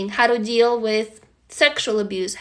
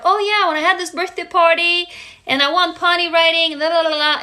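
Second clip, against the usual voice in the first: higher-pitched, breezy reminiscing; chatty friends; 5 semitones higher than usual. Acted. Friends telling you about their birthday party, higher chirpy mimicry. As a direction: rattle off a happy memory in mock friend chatter. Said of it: "they're like".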